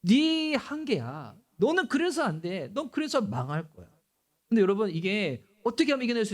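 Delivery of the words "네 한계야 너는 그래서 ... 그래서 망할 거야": devil's taunt. Retold or imitated. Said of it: "마귀는 그렇게 얘기해요".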